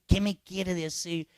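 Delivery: slow, deliberate ¿Qué me quiere decir? with weight on me; slow pointed question. Retold or imitated. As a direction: draw out the question to press the penitent. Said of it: "Y dile".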